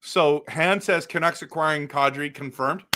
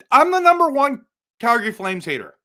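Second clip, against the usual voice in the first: higher, louder proud rant; loud declaration; 6 semitones higher, 6 dB louder than usual. Real, not acted. Flames hater announcing himself to his viewers, loud and high. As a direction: proclaim it like a battle cry.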